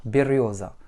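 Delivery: берёза with first е reduced to i, final а weak; reduced vowels. Shown as a demonstration. Teacher modelling берёза for learners, reduced vowels. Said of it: "I réduit et un A réduit".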